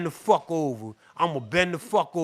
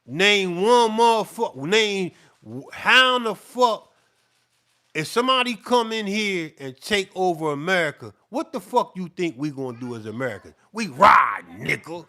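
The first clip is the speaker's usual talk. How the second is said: heated rant; 4 dB louder than usual. Real, not acted. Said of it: "I'm getting real heated and I'm getting real mad and angry".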